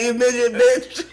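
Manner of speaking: giggling through a quoted insult; laughing mock insult. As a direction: repeat it laughing. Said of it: "Like that".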